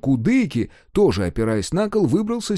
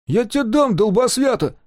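higher indignant retort; angered; 11 semitones higher, 4 dB louder than usual. Acted. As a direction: bristle at the insult. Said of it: "осерчал древорез".

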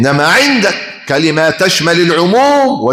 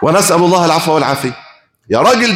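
ordinary delivery

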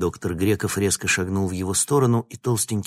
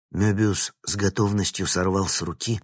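ordinary delivery, nothing marked

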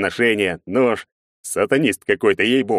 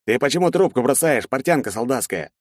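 barking boss; 6 semitones higher than usual. A narrator's reading. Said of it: "рявкнул тот".

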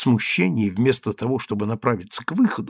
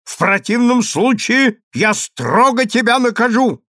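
high loud threat; angry threat; 9 semitones higher, 5 dB louder than usual. Acted. Consul threatening punishment, angry. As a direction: threaten with full force. Husband threatening through door.

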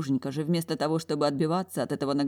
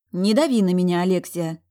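snapping back; 2 semitones higher, 6 dB louder than usual. Acted. Talya snaps at her sister.

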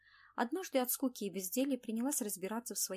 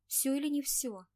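sharp, loud, higher demand; angry demand; 6 semitones higher, 6 dB louder than usual. A narrator's reading. Feverish Olesya angrily pressing Anna, loud and sharp. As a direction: press her for an answer, angry. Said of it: "переспросила Олеся зло".

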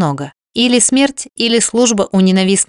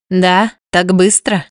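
surprised rasp; slower than usual. A narrator's reading. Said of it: "удивлённо прохрипела".

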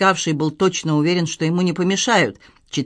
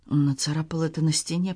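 hushed and shaky; trembling whisper; 7 dB quieter than usual. A narrator's reading. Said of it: "прошептал Леон, дрожа всем телом".

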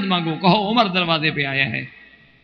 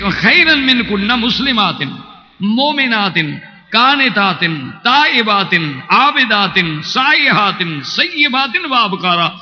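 raised recitation; 2 semitones higher, slower than usual. Shown as a demonstration. Preacher repeating the verse to stir the listeners, raised. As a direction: lift each word like a proclamation. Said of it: "قرآن کہتا ہے".

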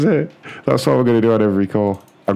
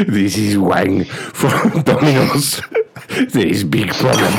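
put-on drawn-out caricatured Chinese-accented English; slow and deliberate, hammed-up Chinese accent; slow mock Chinese accent; slower than usual. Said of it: "as an Asian guy".

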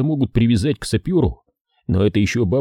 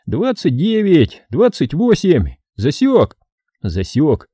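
raised, measured businesslike count; brisk counting; 9 semitones higher than usual. A narrator's reading. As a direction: count it off deliberately. Глебыч деловито считает и командует. (деловитый отсчёт)

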